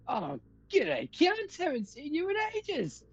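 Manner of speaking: very high-pitched, exuberant hello; excited hail that shoots up high; too-loud greeting. Acted. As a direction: greet a long-lost friend far too loudly. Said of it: "Keep your voice down".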